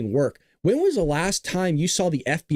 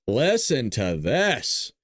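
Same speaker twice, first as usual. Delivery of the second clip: slow, drawn-out listen to this; slow dramatic; 4 semitones lower, much slower than usual. Pretend. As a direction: drag it out for drama.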